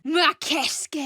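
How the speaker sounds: high, loud incantation; shouted spell. Acted. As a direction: fling the word out as a spell. Casting a spell.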